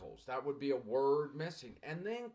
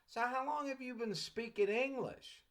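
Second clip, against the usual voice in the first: sweet, kind; 9 semitones higher than usual. Retold or imitated. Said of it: "A sweet, kind, I'm here to help".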